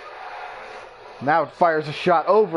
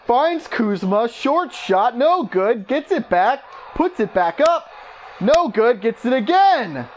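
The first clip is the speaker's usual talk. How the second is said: higher, urgent play-by-play in short bursts; mounting excitement; 5 semitones higher than usual. Real, not acted. Commentator follows Kuzma's repeated put-back attempts, excited. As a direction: climb with each attempt at the basket.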